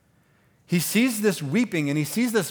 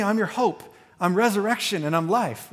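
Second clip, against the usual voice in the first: higher, insistent, calling people to hope; Jesus pleads with mourners, higher and urgent; 5 semitones higher than usual. Retold or imitated. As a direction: urge the grieving crowd to look up.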